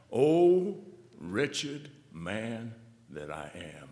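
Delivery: slow, drawn-out mournful cry; slow lament. Acted. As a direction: linger on wretched like a groan.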